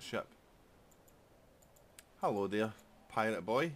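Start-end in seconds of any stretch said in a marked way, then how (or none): 2.2-3.7 loud, high teasing greeting; mocking taunt. Real, not acted. Gamer greets the enemy pirate before battle, loud mocking taunt. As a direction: jeer at the rival like a cocky bully.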